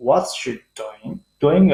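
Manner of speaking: "what's she doing" slow, "doing" drawn out; low ending. Shown as a demonstration. Teacher points out the question's low ending, slowly. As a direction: stretch "doing" and keep it down at the end. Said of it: "پس تلفظ شد".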